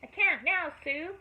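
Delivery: high shout back to Mama Sue; calling back. A narrator's reading. Joe shouting from the woodpile to Mama Sue, high and loud. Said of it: "called Joe from the woodpile".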